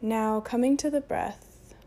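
unhurried meditation voice with long pauses; guided meditation. Acted. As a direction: guide them gently into breath and stillness.

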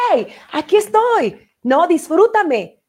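high, slow call for attention; the present calling out. Acted. The present calls out to someone stuck in the future, high and slow. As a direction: play the present calling out to be enjoyed. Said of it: "tu presente te está gritando".

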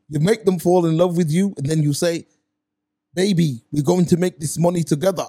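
amateur imitation of the influencer's accent; light, badly faked accent, mimicking his advice on women; Andrew Tate's accent. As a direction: try his accent, not quite getting it. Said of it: "I can't do the accent that good. I tried".

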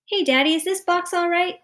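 put-on high, loud little boy calling. A narrator's reading. Son calling to father from kitchen, loud. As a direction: call from another room. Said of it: "Stevie called from the kitchen".

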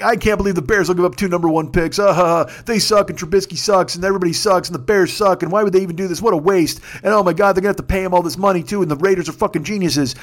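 mocking naysayers. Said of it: "Everybody's laughing at the Bears".

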